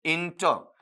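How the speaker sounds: इंटर set apart as its own chunk; broken-off syllables. Shown as a demonstration. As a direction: say इंटर separately, with the final r dropped. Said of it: "इसे तोड़ेंगे".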